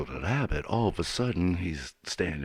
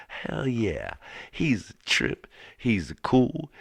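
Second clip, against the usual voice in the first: put-on higher, louder eager kids; excited boys; 7 semitones higher, 3 dB louder, slower than usual. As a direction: brag like thrilled boys. Boys boasting about uncle.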